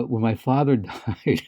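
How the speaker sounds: slow, a laugh breaking in before the last word; laughing while talking. Real, not acted. Starting a story about the father's funeral, laughing. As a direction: laugh partway through the sad news. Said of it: "I'm laughing 'cause".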